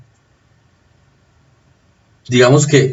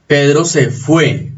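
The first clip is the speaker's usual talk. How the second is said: ejemplo despacio; slower than usual. Shown as a demonstration. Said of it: "¿Por qué fue no se tilda?".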